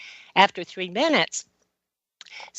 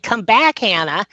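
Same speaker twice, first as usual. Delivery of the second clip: mildly raised call to a dog; retold calling out. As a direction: call the dog back, lightly acted. Retold calling to dog near road.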